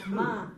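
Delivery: Ma said alone with weight; Ma, isolated and stressed; stressed syllable. Shown as a demonstration. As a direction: lean on Ma as the accented syllable. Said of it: "The accent is on the ma".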